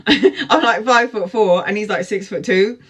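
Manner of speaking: laughing through the words; amused, half-laughing. Retold or imitated. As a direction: giggle as you say it.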